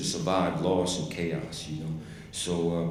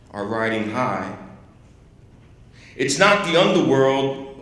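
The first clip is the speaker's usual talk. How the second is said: slow, measured poetry reading with long pauses; poem recital; slower than usual. Acted. Poet reads Langston Hughes to an audience, slow poem recital. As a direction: declaim each line, weighty stresses, letting the endings drop.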